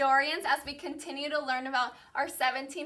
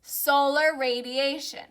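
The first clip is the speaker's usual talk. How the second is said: slow, drawn-out term for repeating; vocabulary call-out. Real, not acted. Teacher has class repeat academic vocabulary, slow call-out. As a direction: model it slowly for the class to echo.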